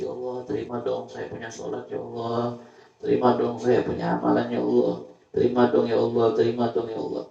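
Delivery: a mock tearful plea, understated; pleading prayer. (doa memohon, sedikit lebih keras)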